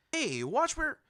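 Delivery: high, loud affronted yell cut off; indignant shout. A narrator's reading. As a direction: snap at someone bumping you. Boy shoved, protests loudly.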